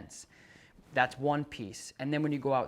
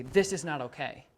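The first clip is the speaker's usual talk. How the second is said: firm, no-nonsense correction; assertive. Shown as a demonstration. Trainer showing the owner an assertive correction, firm. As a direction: say it like you mean it. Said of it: "you gotta assertively say".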